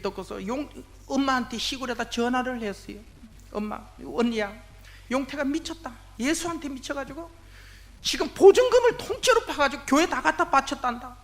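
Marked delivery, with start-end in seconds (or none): 3.5-11.2 aunt's frantic phone call, higher and louder at the end; a retold aunt panicking over the phone; alarmed gossip. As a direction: breathlessly spread the shocking news.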